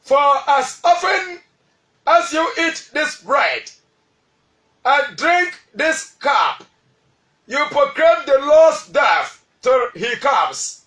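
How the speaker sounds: slow, weighty reading of the verse, every phrase given room; slow scripture reading. Shown as a demonstration. Preacher reads Corinthians aloud to his congregation, slow and weighty. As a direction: read the verse out slowly to the congregation. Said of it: "I read".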